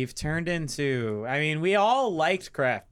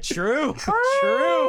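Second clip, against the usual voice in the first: imitating Rick; 6 dB louder than usual. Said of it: "Rick was like".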